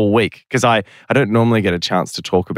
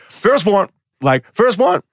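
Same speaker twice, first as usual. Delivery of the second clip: imitating McConaughey; 10 semitones higher, slower than usual. The speaker repeating McConaughey's question for the hosts, drawled. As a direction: lean in and drawl First one. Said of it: "He goes".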